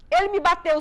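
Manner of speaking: retold child pleading aloud in prayer; pleading cry. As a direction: cry it up to Jesus, hurt. Child crying out prayer to Jesus.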